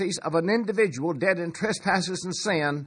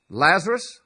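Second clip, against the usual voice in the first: loud call; 4 dB louder than usual. Retold or imitated. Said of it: "in a loud voice".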